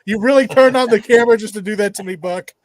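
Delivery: fast, loud playful protest; exasperated fake complaint; mock protest. Real, not acted. Protesting friend's prank.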